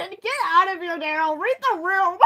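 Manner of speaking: loud, laughing high-pitched outburst; laughing scold. Real, not acted. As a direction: yell at him through laughter.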